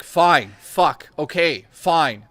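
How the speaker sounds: grudging, defeated sigh of "fine"; mock-exasperated surrender to his date; reluctant giving in. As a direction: cave in, resigned. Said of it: "I said it like that, legitimately".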